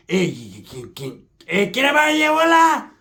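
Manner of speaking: rising awkward put-on voice; mock awkward voice. A man asking for condoms, rising into a very high put-on voice.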